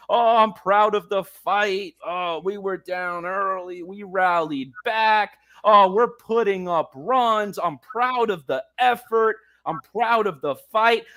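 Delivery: slow, sarcastic parody of team excuses; mocking imitation. Host mocking the team's post-game talk, slow sarcastic parody. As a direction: drag out the "proud" clichés with scorn. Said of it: "I am sick and tired of hearing".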